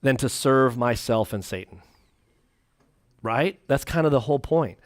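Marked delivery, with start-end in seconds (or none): 0.0-1.8 slow, earnest and low; mean every word, slowly; sincere devotion. Pretend. Preacher answering the tent-peg complaint with slow devotion. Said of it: "I'm like".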